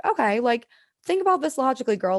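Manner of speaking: retold girl-to-self pep talk.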